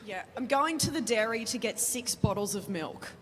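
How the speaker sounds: relaxed broad Australian vowels on "dairy"; Australian accent. Shown as a demonstration. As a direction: say it the Aussie way, easy and laid-back. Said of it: "then I'll say it in Aussie".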